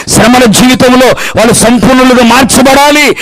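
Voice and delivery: rhythmic, driving sermon chant; full-force preaching. Real, not acted. Preacher telling the church to press on, full-force preaching. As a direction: pound out each parallel phrase to the end.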